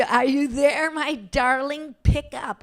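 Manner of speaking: high sing-song coaxing; doting mom call. Retold or imitated. Mother leaving voicemail for daughter, sweet sing-song.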